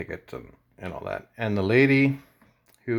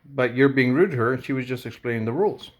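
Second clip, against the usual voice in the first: higher, raised pushback; retold argument; 4 semitones higher than usual. Telling the rude customer off for the cashier, higher and raised. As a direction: argue back hard. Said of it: "I'm like".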